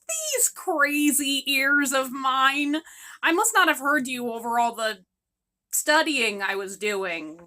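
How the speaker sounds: slow, drawn-out innocent excuse; fake innocent excuse. Daughter fibbing to her mother about studying, slow and innocent. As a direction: play dumb and stretch it out.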